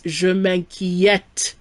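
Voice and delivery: "je m'inquiète" slowly, with open "eh" in the last syllable; open eh sound. Shown as a demonstration. Teacher showing accent grave, "m'inquiète" with open eh. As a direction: stretch "m'inquiète" to show its open è. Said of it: "with an eh sound".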